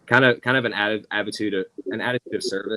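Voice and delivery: audio dropping out; choppy call audio; cutting out. Real, not acted. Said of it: "your audio keeps cutting out".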